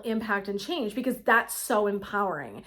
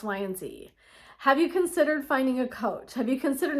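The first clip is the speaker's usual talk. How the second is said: loving suggestion; 2 semitones higher than usual. Retold or imitated. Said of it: "someone lovingly says to you".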